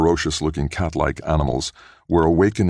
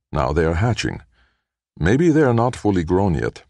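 excited; 3 semitones higher than usual. Acted. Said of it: "voice was quivering with excitement".

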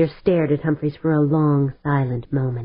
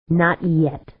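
growled. A narrator's reading. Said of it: "Stavanger growled".

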